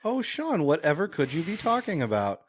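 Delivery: high, coy feigned innocence; mock innocent. Co-host feigns innocence about the dog, high and coy. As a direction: play dumb in a high coy voice.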